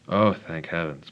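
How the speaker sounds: loud burst of relief; relieved. Real, not acted. Tutor as the sum finally works out, relieved. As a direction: let the relief out.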